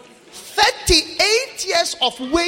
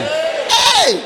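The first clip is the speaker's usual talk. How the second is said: startled hey; 8 semitones higher, 4 dB louder than usual. Retold or imitated. Crowd reacts to roof opening.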